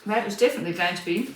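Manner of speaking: talking with a mouthful of food; words pushed out around a bite; mouth full. Real, not acted. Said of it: "talking with my mouth full".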